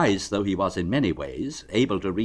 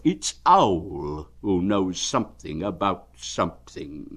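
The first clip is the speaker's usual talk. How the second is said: bear to himself. Acted. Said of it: "said Bear to himself".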